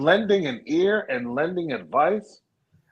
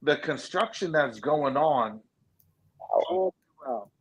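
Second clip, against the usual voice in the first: muffled, like through a wall. Real, not acted. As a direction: voice dulled by a bad mic. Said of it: "You sound muffled".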